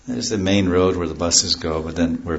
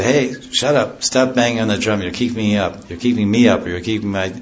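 annoyed yell; 2 semitones higher than usual. Retold or imitated. Neighbour kept awake shouting at the midnight drummer, mock angry. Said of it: "they say".

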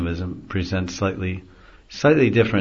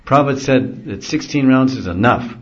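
emphatic preacher quote; 6 semitones higher, 6 dB louder than usual. Retold or imitated. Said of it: "they'll say".

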